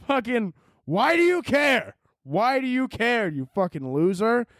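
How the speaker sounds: high, slow, indignant demand; comic exasperation. Acted. Comedian ranting at people who object, exasperated. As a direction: hammer it out in comic annoyance.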